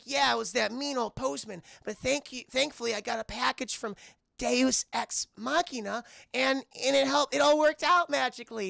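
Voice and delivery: high reindeer character voice; Olive. Retold or imitated. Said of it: "And she's like".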